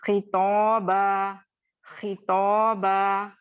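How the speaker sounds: खितौबा slow with a lightly thickened ख; lightly heavy ख in खितौबा; third-level heavy. Shown as a demonstration. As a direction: model खितौबा gently for students. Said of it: "तो इसको हम कैसे पढ़ेंगे?".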